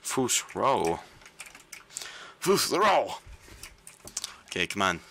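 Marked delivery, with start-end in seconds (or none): 2.4-3.1 high, loud shout; battle shout. Acted. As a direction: shout it high like a power word. Game shout, second attempt.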